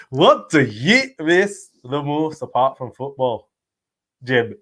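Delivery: slow, drawn-out mock Scottish accent; put-on Scottish accent. Host echoing co-host's attempt at the question, slow mock Scottish accent. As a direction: stretch the question out in imitation Scottish. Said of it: "I'm trying to say it in his accent".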